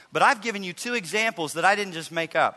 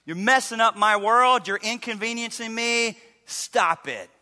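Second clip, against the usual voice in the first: selfish mock irritation; 3 semitones higher, slower than usual. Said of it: "It was, it was selfish".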